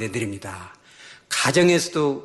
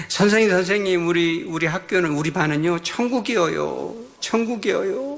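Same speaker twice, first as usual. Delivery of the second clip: lightly voiced eager pupils, pitched higher; higher, lightly mimicked kids' chorus; excited schoolchildren; 5 semitones higher than usual. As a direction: imitate children calling out to their teacher, drawing out the ends. Acting out pupils answering their teacher.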